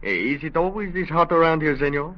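light put-on Spanish accent, a detective in disguise; a lawman faking a mild Spanish accent; phony Spanish accent. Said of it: "with that phony accent".

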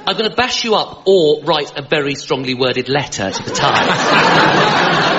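slow, ineffectual posh threat; posh accent. Acted. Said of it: "posh accent is rubbish for being aggressive".

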